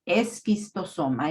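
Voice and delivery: "Esquistosoma" begun with "es", then a hard K; "Esquistosoma" with an E before the S; correct pronunciation. Shown as a demonstration. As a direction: say "Esquistosoma" as es-kis-to-SO-ma. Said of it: "es la pronunciación correcta".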